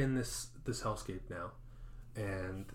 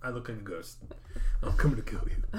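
casual ghost; 4 semitones higher, 5 dB louder than usual. Pretend. Ghost casually answering the victim.

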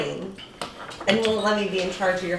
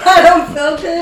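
high, slow mocking sick whine; 8 semitones higher, 9 dB louder, slower than usual. Mocking the sick friend in a high drawn-out whine. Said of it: "I'm confused".

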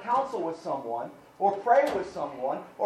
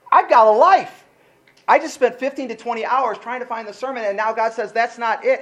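frustrated outburst; 4 semitones higher, 6 dB louder than usual. Retold or imitated. Retelling his frustrated outburst.

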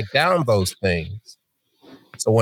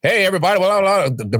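hammed-up stage voice, pitched up, a bit louder; mock loud overacting; 8 semitones higher than usual. Retelling his old overacting in class, a hammed-up loud greeting. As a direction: imitate an actor projecting too hard. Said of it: "I was talking loud".

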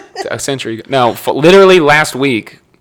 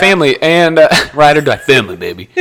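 loud, higher, hammed-up tough-guy declaration; playful boast of a Fast and Furious line; mock Dom Toretto catchphrase; 5 semitones higher, 5 dB louder, faster than usual. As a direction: belt it like a movie action hero.

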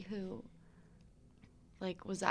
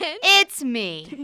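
grand entrance; 7 semitones higher, 12 dB louder than usual. Acted. Guest makes grand entrance.

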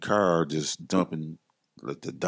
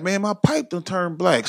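higher-pitched mock complaint; retold anger; 12 semitones higher, 3 dB louder than usual. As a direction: imitate an upset customer in a raised pitch. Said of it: "he got mad".

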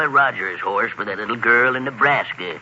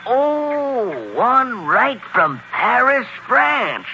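surprised; 9 semitones higher, much slower than usual. Acted. Santa repeats child's order, awed.

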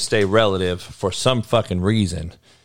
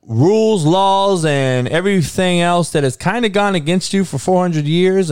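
heated; 6 semitones higher than usual. Real, not acted. Heated rant about four hundred years.

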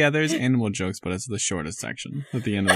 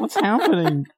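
high and laughing, incredulous; cracking up at the absurd joke; 10 semitones higher, 4 dB louder than usual. Real, not acted.

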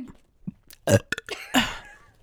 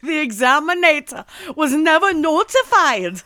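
laughing; 3 semitones higher, 4 dB louder than usual. Real, not acted. Reading while laughing.

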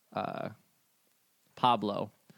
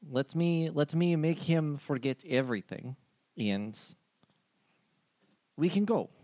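The speaker's voice. Acted. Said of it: "she turns to Benny and she goes".

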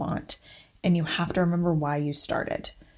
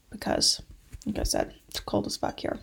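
while sipping a drink; 5 dB quieter than usual. Real, not acted. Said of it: "if you hear me drinking".

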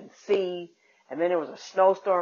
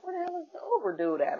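exasperated outburst; 11 semitones higher, 5 dB quieter, faster than usual. Retold or imitated. Annoyed self waiting for driver.

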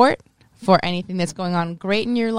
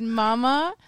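mock whining; 2 semitones higher, much slower than usual. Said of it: "And so I said".

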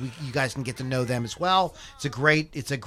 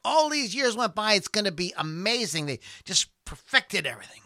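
excited fan; 6 semitones higher than usual. Pretend. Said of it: "Would you go".

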